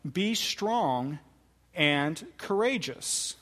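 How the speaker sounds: Be lifted, courageous slowed; courageous stretched and falling; emphasized command. Shown as a demonstration. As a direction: press each word of the command, slowly. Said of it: "I tried to emphasize the words there".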